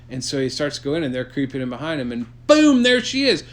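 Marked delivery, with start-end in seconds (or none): 2.1-3.4 loud, high dramatic burst; dramatic reveal. A narrator's reading. Storyteller springs Medusa on the listener, loud and high. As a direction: hit the reveal big and loud.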